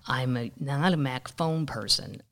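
normal talking voice

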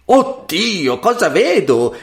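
high-pitched aghast mother; horrified exclamation. A narrator's reading. Mother seeing toads and vipers, exclaiming in horror. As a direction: cry out in shock. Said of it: "esclamò la madre".

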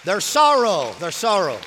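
forceful, loud sermon delivery; preaching. Real, not acted. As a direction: land each phrase like a preacher.

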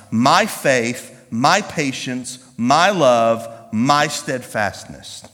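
slow, measured list with each "my" leaned on; preacher spelling out a verse item by item; emphatic scripture reading. Acted. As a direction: read it out deliberately, a pause after each item. Reads scripture to the congregation.

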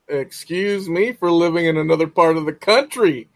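hammed-up offended retort; mock indignation. Host mocking the student who laughed, in playful indignation.

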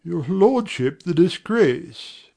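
slow, pleading in mild distress; great distress. Acted. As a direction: beg him, hurt by the disgrace. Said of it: "In great distress".

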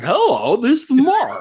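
mock-cheery high voice, laughing through it; goofy Mark voice. Host spoofing how Mark Spector might sound, high and giggly. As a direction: play Mark as a silly, chipper guy. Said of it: "Or he's like".

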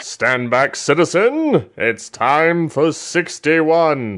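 slow, booming superhero announcement; bold heroic voice. Pretend. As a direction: play the caped hero stepping in. Mock superhero intro to countdown.

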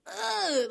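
high, frustrated "ugh"; real fed-up groan; exasperated groan. Real, not acted. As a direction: groan of disgust. Disgust at rude manager.

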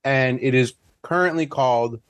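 talking while chewing candy; words around a Tootsie Roll; mouth full. Real, not acted. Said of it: "sorry, I'm eating a Tootsie Roll".

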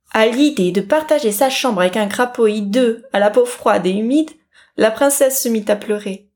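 ordinary delivery, nothing marked

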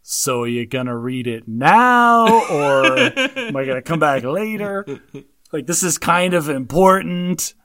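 slow, drawn-out impatient demand; mock-impatient nudge to get on with it; impatient wife. Wife impatiently urging Will Ferrell's character to read it, slow and drawn out. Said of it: "my wife actually verbalized, she goes".

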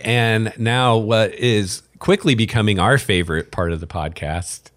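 dry mock-enthusiastic segment intro; sarcastic. Real, not acted. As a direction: announce it with tongue in cheek. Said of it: "I'm being sarcastic".

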